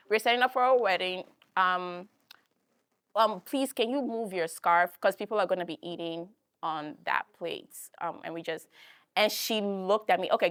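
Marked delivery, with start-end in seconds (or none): 0.1-7.7 a touch of put-on politeness to an older lady; overly polite request. Shown as a demonstration. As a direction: ask her nicely, like addressing an elder. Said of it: "This is how I said it too".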